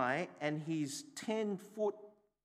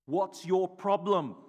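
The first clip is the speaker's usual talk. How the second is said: louder, slow retold snap; imitating rude retort; 3 semitones higher, 8 dB louder than usual. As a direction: throw back the helper's rude reply.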